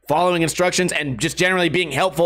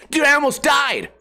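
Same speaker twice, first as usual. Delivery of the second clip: higher, hammed-up clickbait panic; mock YouTuber drama; 8 semitones higher than usual. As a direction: parody an overacting vlogger. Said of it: "parody of clickbait thumbnail".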